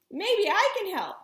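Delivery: put-on boy calls over the wind; shout over wind. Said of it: "I shouted over the wind".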